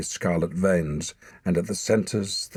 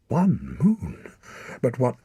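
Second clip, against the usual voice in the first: alarmed question; 6 semitones higher, 4 dB louder, slower than usual. A narrator's reading. Boy alarmed.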